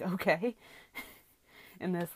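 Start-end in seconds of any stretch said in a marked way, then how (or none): 0.0-0.6 baffled okay. Real, not acted. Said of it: "baffled cashier, loud".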